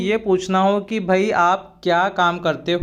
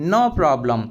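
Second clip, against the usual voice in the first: 1 slow teaching demo; 4 semitones lower, much slower than usual. Shown as a demonstration. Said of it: "आगे देखिए".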